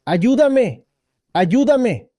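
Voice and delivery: the fallen monk calls for help, mild mock shout; retold cry for help. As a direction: act out the fallen monk calling, lightly. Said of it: "y está gritando".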